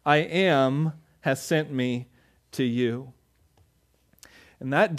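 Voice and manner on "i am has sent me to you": solemn divine voice. Acted. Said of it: "And he said".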